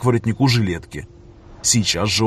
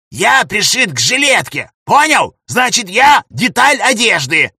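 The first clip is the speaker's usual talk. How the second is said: high shrieking raccoon rant; escalating comedy rant; 8 semitones higher, 5 dB louder than usual. Acted. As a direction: scream it in outrage. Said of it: "сорвался на крик".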